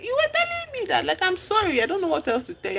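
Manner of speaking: high, strained sorry; pleading apology. Retold or imitated. C apologising to her furious friend, high and pleading. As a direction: beg her to understand.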